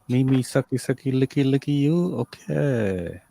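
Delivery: lightly hammed-up sleazy phone voice; sleazy phone operator pitch, only lightly voiced; mock phone sex operator. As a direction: play a cheesy phone line hustler. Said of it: "It'd be like".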